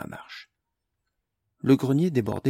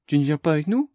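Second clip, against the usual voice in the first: cried out; 5 semitones higher, 6 dB louder, faster than usual. A narrator's reading. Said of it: "s'écria Amélie".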